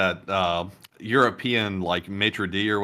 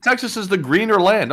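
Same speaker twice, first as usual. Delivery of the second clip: mock slogan; 9 semitones higher, 5 dB louder than usual. Mock slogan segue, repeated.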